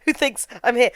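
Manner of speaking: loud, fed-up mock rant from the doll; frustrated Chucky. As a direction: vent at her loudly, done with her. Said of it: "He's like".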